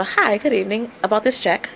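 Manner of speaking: lightly polished, polite business voice; a hint of the formal phone caller; professional voice. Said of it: "my more professional".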